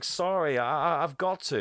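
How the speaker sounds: lightly voiced pleading kid; apologetic boy. Jack apologising to the bike.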